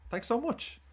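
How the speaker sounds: thanks so much pitched high with a lilting rise; chirpy, high thank-you; a bright, high, rising thanks so much; sing-song thanks. Real, not acted.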